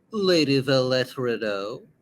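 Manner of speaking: lightly voiced polite young suitor; courtly suitor. Young lord greeting a lady at a ball, courtly.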